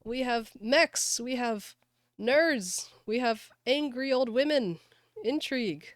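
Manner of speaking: high, loud and thrilled; excited. Real, not acted. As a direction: gush over the new content. Excited about new episode.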